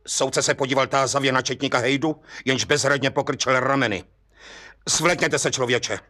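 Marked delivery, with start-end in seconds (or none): 4.9-6.0 a sharp command with a touch of anger; snapping. Acted. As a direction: bark the order at the culprit. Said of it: "obořil se soudce".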